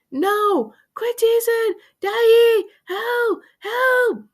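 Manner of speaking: high, loud crying howl; frantic high-pitched sobbing yell; muffled wailing. A narrator's reading. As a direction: wail at Dad with lips stuck. Stuck boy wailing at teasing.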